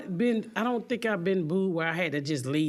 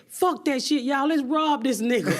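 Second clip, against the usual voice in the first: raised voice breaking into laughter; rowdy rallying cry; 5 semitones higher, 4 dB louder than usual. Retold or imitated. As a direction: act out inciting a crowd, amused. Retold rallying the crowd.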